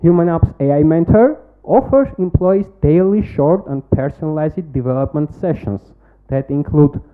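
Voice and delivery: rehearsed, projected pitch-deck delivery; confident startup pitch read to a jury; pitch presentation. Acted. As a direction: sell the product to the judges like a memorised pitch.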